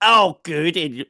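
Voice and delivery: slow, high, hammed-up Yorkshire accent; an American's stab at broad Yorkshire, drawn out; mock Yorkshire accent. Wife teasing on the podcast, in a hammed-up Yorkshire accent. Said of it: "that's an American's interpretation".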